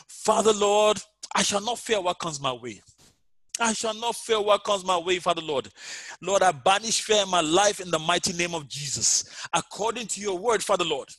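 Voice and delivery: pleading prayer over music, fading at the end; fervent prayer. Acted. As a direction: drive out fear with conviction. Leads prayer against fear.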